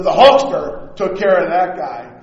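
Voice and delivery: loud, proud wrestler boast; Hulk Hogan voice. Retold or imitated. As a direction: brag like the Hulkster in third person. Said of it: "he started talking third person".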